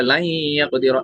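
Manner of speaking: लाई held on a nasal hum into यक; merging with ghunna. Shown as a demonstration. Teacher showing the merged noon, लाई hummed into यक. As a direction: draw out the nasal glide in लाई, यक. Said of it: "तो ये इदगाम बेगुन्ना होगा".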